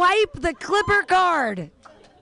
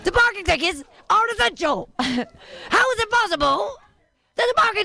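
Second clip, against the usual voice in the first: Cosby impression; 3 semitones higher, faster than usual.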